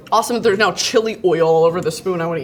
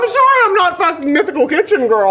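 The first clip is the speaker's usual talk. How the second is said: mock snippy comeback; 9 semitones higher, 5 dB louder than usual. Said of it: "it's called improv".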